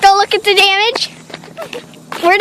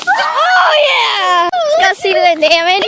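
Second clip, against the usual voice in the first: excited cheer; 4 semitones higher than usual. Real, not acted. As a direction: shout with glee. Can explodes, cheering.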